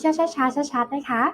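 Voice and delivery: slow, careful teacher instruction; slow and clear. Shown as a demonstration. Teacher asks children to read along, slow and clear. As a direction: draw it out for learners. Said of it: "อ่านตามพี่ช้าๆช้าๆชัดๆ".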